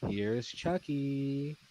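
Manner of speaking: slow, creepy sing-song Here's Chucky; chilling haunting voice. Retold or imitated. Retelling a nightmare, a slow creepy doll voice. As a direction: draw it out like a doll taunting. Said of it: "this chilling, haunting voice".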